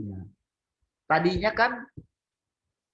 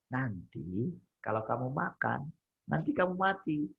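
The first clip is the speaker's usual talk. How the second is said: gentle teaching. Shown as a demonstration. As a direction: warn tenderly, like a loving parent. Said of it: "Ngajar, lembut gitu kan".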